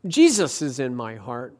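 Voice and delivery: quietly earnest "Jesus is in my heart"; serious little girl. Retold or imitated. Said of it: "she said in a serious face".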